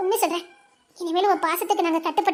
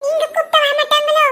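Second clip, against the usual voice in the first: put-on child voice; 9 semitones higher, 3 dB louder than usual. Child voice asking father.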